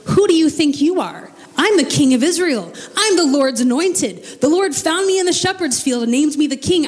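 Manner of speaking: lightly voiced king bristling at being corrected; indignant king. David's imagined defiant retort.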